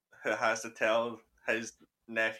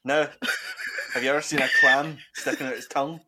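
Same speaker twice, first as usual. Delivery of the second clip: put-on Scottish accent; 4 dB louder, faster than usual. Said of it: "my Nedish Scottish roots".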